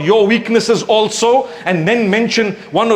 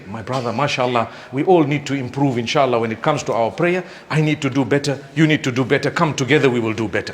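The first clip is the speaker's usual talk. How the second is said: softer, lower, tender brotherly advice; gentle, kind advice; 5 semitones lower, 4 dB quieter than usual. Shown as a demonstration. Preacher showing how to gently advise a brother, soft and tender. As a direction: coax him kindly, no blame at all. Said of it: "That's how you talk".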